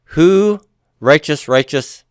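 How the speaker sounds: mock puzzled. Shown as a demonstration. Teacher showing a strange reading: mock puzzled question. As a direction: sound baffled by the odd phrasing. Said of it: "it would be rather strange".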